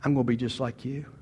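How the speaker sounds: soft, low retold child's vow; hushed imitation of his younger self; lightly voiced little boy. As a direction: say it quietly, as a boy admiring his dad. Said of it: "I would just be looking at him going".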